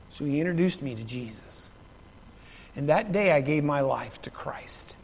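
hushed testimony. Real, not acted. Preacher recalling giving his life to Christ, hushed testimony. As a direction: drop to a near-hush, solemn and personal.

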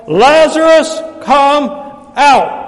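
high, booming shout, word by word; loud cry. Acted. Jesus calling Lazarus from the tomb, loud cry. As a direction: call it out with big pauses between words. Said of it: "cried out in a loud voice".

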